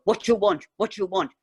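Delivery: high, loud, gruff demand; gruff shopkeeper Max. Retold or imitated. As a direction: bark it like a suspicious old shopkeeper. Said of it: "he'd go".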